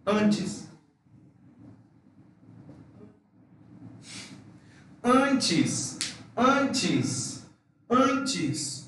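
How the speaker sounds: antes with a nasal first A, ending in chis. Shown as a demonstration. Teacher drilling the nasal A before N. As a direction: antes said as ɐntʃis. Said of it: "antes de una N".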